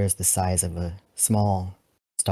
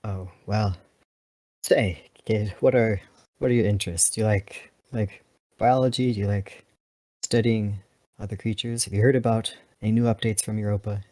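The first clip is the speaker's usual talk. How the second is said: lightly voiced, quicker eager questions; a hint of an awkward elder trying to connect; pilot changing subject. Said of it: "for a while and says".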